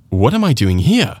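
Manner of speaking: "here" lifted at the end; stress on HERE. Shown as a demonstration. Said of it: "if you emphasize the word là".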